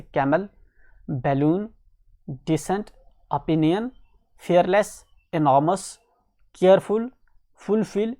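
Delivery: word list read out one by one, each set apart; teacher's careful pronunciation list; loud, clear word drill. Shown as a demonstration. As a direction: model each word clearly for a class to repeat. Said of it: "loudly और clearly बोलना है".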